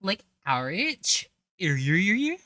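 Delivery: high, loud mock squeal of disgust. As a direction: ham up the grossed-out reaction. Mimicking her disgust, higher and louder.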